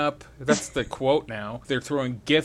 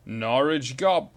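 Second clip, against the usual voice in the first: slow, deliberate reversed-sounding name; backwards speech; slower than usual. Pretend. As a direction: say it like a tape played backwards. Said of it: "talk backwards right now".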